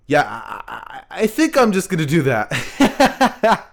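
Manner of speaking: giggling through the words; laughing. Real, not acted. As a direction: laugh as you decide. Laughs at own idea.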